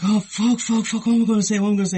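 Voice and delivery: high, loud flustered panic; mock panic. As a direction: flap about what to say. Retelling his own phone panic.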